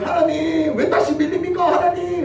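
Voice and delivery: desperate cry to God. Retold or imitated. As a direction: shout up to God in panic. Moses crying out again.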